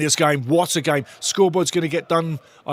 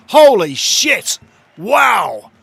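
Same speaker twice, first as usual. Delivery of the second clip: stunned awe; 5 semitones higher, 7 dB louder, much slower than usual. Real, not acted. Stunned by the replay.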